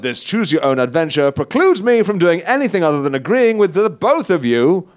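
rousing cowboy call. Acted. Cowboy rallying the group.

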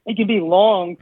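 coughing, clearing a tickly throat. Real, not acted. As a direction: talk through a coughing fit. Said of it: "I'm, like, choking".

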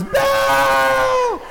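loud shout at normal pitch; dad shout. Retold or imitated. Dad shouting to get Belle's attention, loud. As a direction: holler her name like a dad. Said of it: "And a daddy goes".

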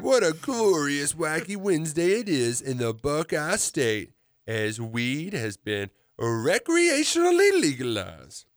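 lazy, drawn-out slacker drawl; slow and spaced-out, like a stoned surfer dude; stoner voice. Acted. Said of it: "you'll have to read in a stoner voice".

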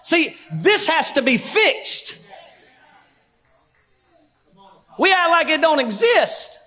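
emphatic pulpit delivery with drawn-out phrase endings; preaching. Acted. Preacher warning church leaders about revival, emphatic preaching. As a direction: preach it to the room, landing each point.

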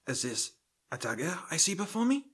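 theatrical audition reading; Shakespeare recital. Acted. Actor auditioning for Macbeth, reading in stagey recital. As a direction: declaim the speech for the casting panel. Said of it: "begin reading the sample passage".

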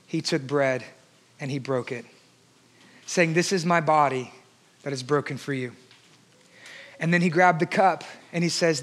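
hushed communion words. Acted. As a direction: let it drop to a near hush, like at the altar.

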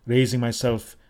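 ordinary delivery, nothing marked

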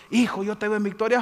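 slightly high, tearful prophet's blessing; mock tearful prophecy. Prophet blessing the believer, tearful and gushing. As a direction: gush over the believer.

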